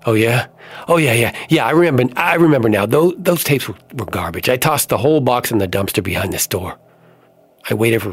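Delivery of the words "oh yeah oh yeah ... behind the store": nervous lying. Acted. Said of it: "but I kept lying".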